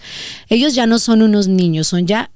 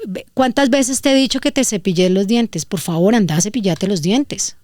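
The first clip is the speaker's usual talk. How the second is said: curt clipped tone. Shown as a demonstration. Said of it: "como hablamos en el valle, así golpeadito".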